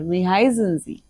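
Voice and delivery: whispered formal question. Shown as a demonstration. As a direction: breathe it out, no voice. Teacher whispering the formal phrase.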